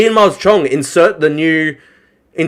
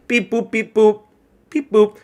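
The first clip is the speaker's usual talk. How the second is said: imitated robot beeps and boops; mock machine-processing noises; robot beeping; 6 semitones higher than usual. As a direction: beep like a robot taking orders. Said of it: "it's just robotic".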